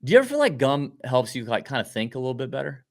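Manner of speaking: talking while chewing gum; words around a wad of gum. Real, not acted. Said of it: "I'm chewing gum".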